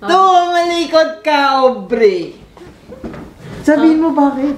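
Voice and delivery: put-on quoting Boyet's line. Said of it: "Sabi na".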